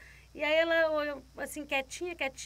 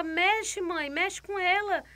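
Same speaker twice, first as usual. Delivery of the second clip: doctor urging the mother; 7 semitones higher, 6 dB louder, slower than usual. Retold or imitated.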